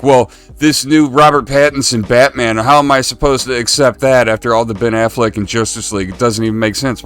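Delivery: lightly indignant mock fan complaint; mimicked complaining fan.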